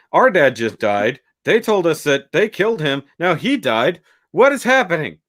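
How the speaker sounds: retold panic. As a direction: imitate bewildered, frightened kids. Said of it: "like, terrified".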